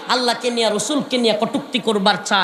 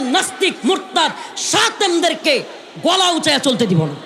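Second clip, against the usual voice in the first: rallying sermon cry; 3 semitones higher than usual. Acted. Preacher calling village youth to stand ready, shouting. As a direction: rouse them to answer back.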